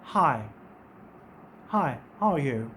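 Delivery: a slow, low friendly "hi, hi, how are you?"; teacher acting out a hello; casual greeting. Shown as a demonstration. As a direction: greet someone lightly and slowly. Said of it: "जिस तरह से आप किसी को कहते हैं".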